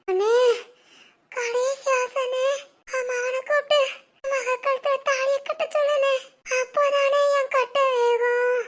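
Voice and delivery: milk the deathbed wish with put-on tears; overacted weeping to force the wedding; fake crying. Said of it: "அவனை நடிச்சா காமிச்சிட்டு இருக்கா".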